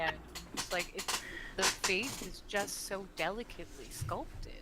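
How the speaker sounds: earnest, unforced admiration; heartfelt compliment; sincere. Acted. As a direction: praise the craft without any sarcasm. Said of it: "there's no sarcasm in my voice".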